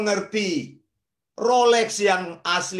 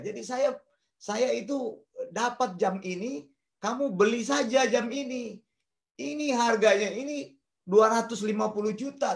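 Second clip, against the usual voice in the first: lightly imitated Malaysian accent, slightly lifted pitch; 3 semitones higher than usual. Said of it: "memang logatnya, oh, dia bilang ke saya gitu". (menirukan logat Malaysia dengan ringan)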